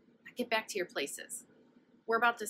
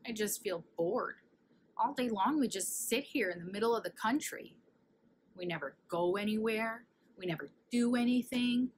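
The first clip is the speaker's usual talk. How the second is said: mild moaning. Acted. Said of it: "moaned Kansas".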